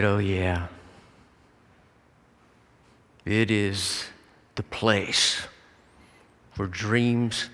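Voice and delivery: hushed reverence with long pauses; calm, measured certainty, phrase by phrase; retold tender assurance. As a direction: answer slowly, letting each phrase hang. Father solemnly answers son about heaven.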